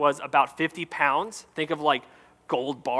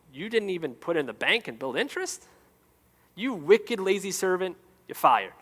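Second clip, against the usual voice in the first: Trump impression; 3 semitones higher, 5 dB quieter than usual. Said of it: "that was my Trump impression".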